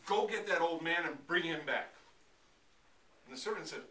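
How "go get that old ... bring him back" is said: forceful, loud order to servants; urgent, booming order; loud command. Acted. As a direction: send them running with a raised voice.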